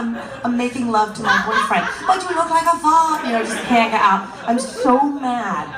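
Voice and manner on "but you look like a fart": echoing taunt. Retold or imitated. Taunt echoing in her head.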